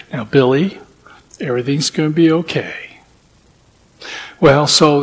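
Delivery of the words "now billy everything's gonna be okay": put-on soft, patient reassurance to a child; calm him down gently, a touch quieter; lightly voiced patient father; patient soothing. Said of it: "this father being so patient".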